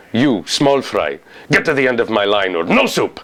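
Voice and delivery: lightly voiced stern soup seller with a Middle Eastern accent; a hint of a gruff order to a customer; Soup Nazi. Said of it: "Middle Eastern accent".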